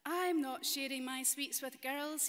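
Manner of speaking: put-on loud, stubborn little boy refusing; defiant wee boy. Storyteller voicing greedy boy for children, loud and defiant. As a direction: plant your feet like a greedy kid.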